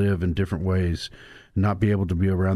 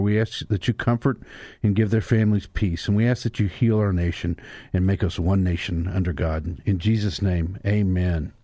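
prayer. Acted. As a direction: pray it earnestly to God. Pastor leads opening prayer.

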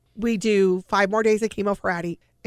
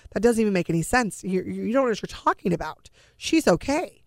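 retold disbelief. Disbelieving parent disputes doctor's prognosis.

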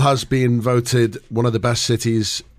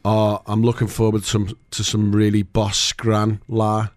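Scouse accent; 3 semitones lower than usual. Shown as a demonstration. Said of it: "you would say something like".

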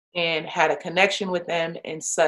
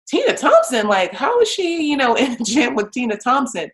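high, disbelieving repeat of the name; mock astonishment, pitched way up; imitating a stunned coach; incredulous coach; 7 semitones higher than usual.

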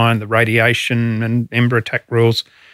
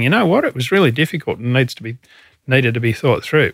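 mock his belated admission, a bit quicker; mock Prime Minister. Ex-chief mocking the Prime Minister's late admission, sarcastic. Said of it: "And now he's saying".

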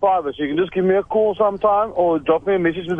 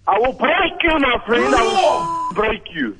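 barbarian; 4 semitones higher, slower than usual. Acted. Threatening the caller.

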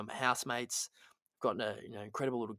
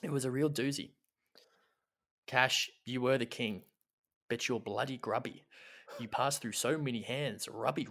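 mock-solemn poem reading. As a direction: read it like a heartfelt eulogy. Reads a mock love poem.

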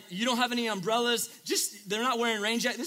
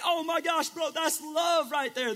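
much higher, slow and amazed; awed excitement; 7 semitones higher, slower than usual. Retold or imitated. A viewer reacts to the team chant, awed. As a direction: marvel at the moment.

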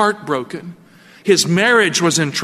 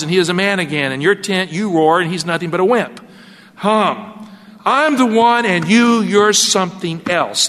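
mocking Hagar. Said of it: "I imagine she said something like this".

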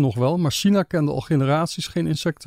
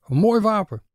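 higher-pitched, mildly thrilled remark; a touch of excitement, pitched up; excited; 5 semitones higher than usual. A narrator's reading. Mr Lee admiring the man's staff, higher and excited. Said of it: "ijsbeerde nog opgewonden".

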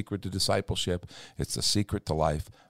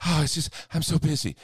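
higher, hammed-up breathless oh, I'm so busy; mock busy sigh; 10 semitones higher than usual. Imitating how people answer when asked how they are, mock busy sigh. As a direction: play up the harried martyr. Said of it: "we say it that way".

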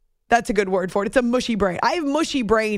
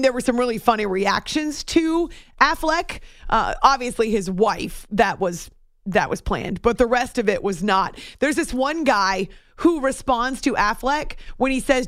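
ordinary talk

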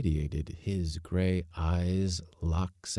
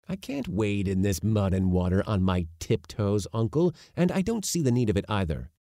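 put-on protesting boy; 3 semitones higher, 4 dB louder than usual.

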